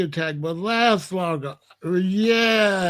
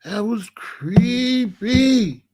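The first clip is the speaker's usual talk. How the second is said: drawn-out creepy; 3 semitones higher, much slower than usual. Real, not acted. Drawing out how creepy it was.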